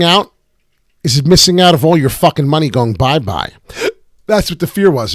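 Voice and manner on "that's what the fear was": talking through hiccups; hiccuping between words. Real, not acted. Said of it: "Excuse me as I got the hiccups".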